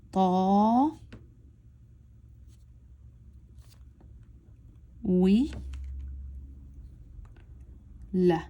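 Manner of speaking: "ta, wi, la" with very long pauses between syllables. Shown as a demonstration. Teacher showing how she reads it, syllable by syllable. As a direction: stretch "ta" and isolate each syllable. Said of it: "how I am reading it".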